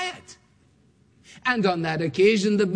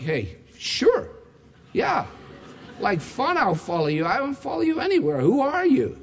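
sarcastic; 4 semitones higher than usual. Retold or imitated. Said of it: "You're like".

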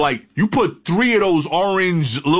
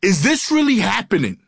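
mock yell; 6 semitones higher than usual. Delirious cop on the third stop, mock yelling. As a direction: imitate a cop crying out in disbelief. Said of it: "he just starts yelling".

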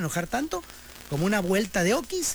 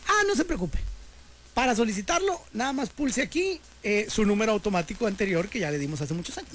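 bank phone machine; 3 semitones higher than usual. Retold or imitated. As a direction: play the chirpy recorded operator. Bank phone system answering again. (contestadora del banco responde con voz aguda y falsa amabilidad)

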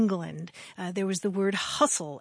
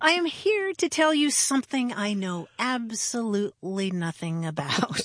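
lightly hammed-up speechifying; a touch of the grand orator, for comic effect; mock-pompous oration. Host declaims nonsense doggerel, mock-pompous oration. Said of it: "this sort of pseudo-sophisticated speech".

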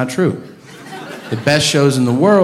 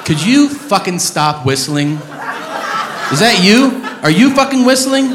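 mock angry rant; 7 semitones higher than usual. Yelling at a whistler in crowd.

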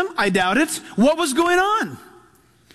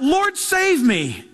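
mild cry for help; 3 semitones higher, much slower than usual. Retold or imitated. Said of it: "Peter cries out".

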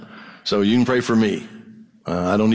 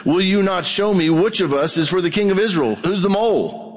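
lightly voiced troubled king, higher; a hint of an anxious king asking who betrayed him; king demanding; 8 semitones higher than usual. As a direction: pastor voicing the Syrian king. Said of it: "he called his servants and said".

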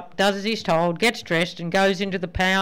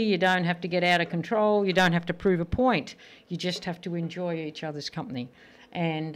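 sincere advice; 3 dB quieter than usual. Real, not acted.

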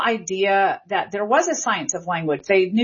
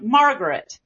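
"Margaret" with extra stress on MAR; stress on first syllable. Shown as a demonstration. Linguist showing Southern stress, "Margaret" stressed on its first syllable. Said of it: "more stress on that first syllable".

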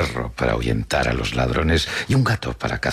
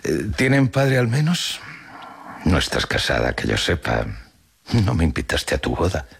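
put-on old woman's probing question, starting high-pitched; needling grandmother; 4 semitones higher than usual. Grandmother questions her daughter about a father and wedding, needling.

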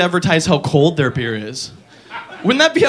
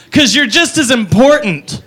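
put-on drunk girl; 3 semitones higher, slower than usual. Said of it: "And she goes".

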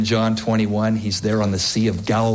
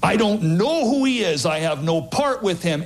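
Peter's denial; 6 semitones higher than usual. Acted. Peter denying he knows Jesus, high and scared. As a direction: deny it in a panic.

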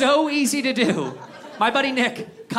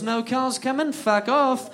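put-on British accent; 2 semitones higher, slower than usual. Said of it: "a little British guy".

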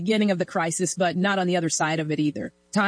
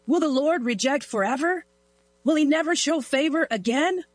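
rising high, searching plea to God; anguished pleading question; 6 semitones higher than usual. Acted. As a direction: ask it as a desperate lament, climbing higher. Psalmist's anguished question read aloud.

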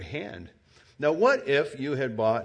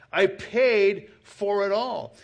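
slow, louder, higher proclamation; preaching climax; 7 semitones higher, 5 dB louder, slower than usual. Real, not acted. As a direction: drive it home slowly.

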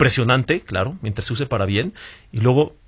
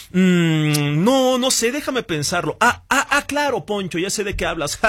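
higher, breathy-paced musing with ums and ahs; humanlike AI hesitating; 5 semitones higher than usual. Retold or imitated. New voice AI pretending to ponder Poncho's question, higher with hesitations. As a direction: play an AI faking human thinking sounds. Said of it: "estos sonidos de un humano respirando".

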